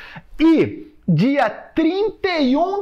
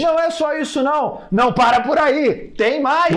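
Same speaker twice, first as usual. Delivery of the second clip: excited; 5 semitones higher than usual. Acted. Infomercial-style build to more prizes.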